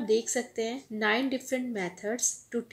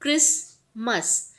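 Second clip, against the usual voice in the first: slow clear demo; 4 dB louder, much slower than usual. Shown as a demonstration. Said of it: "यहाँ पे".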